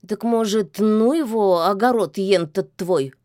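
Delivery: hopeful, coaxing suggestion; eagerly hoping she agrees. Acted. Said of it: "с надеждой предложил кот".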